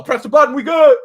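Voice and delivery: playful mock yell; mock shout. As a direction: shout the all-clear across the floor. Acting out coworker restarting line.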